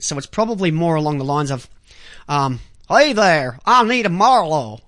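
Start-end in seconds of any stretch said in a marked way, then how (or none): 2.9-4.8 light southern drawl; a hint of a Southern accent. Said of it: "she's got that hint of southern accent".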